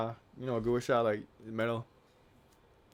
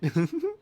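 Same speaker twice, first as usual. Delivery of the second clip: weird laugh; 3 dB louder than usual. Real, not acted. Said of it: "That was weird".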